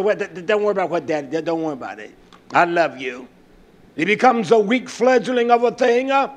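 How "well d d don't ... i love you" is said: lightly voiced soothing dad, stumbling over it; placating daddy. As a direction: murmur reassurance like a dad backing off.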